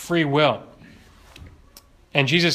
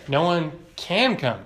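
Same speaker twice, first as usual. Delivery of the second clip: "can" picked out as the key word; stress on CAN. Real, not acted. Preacher repeating a statement on ability, stressing "can". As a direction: lean firmly on "can".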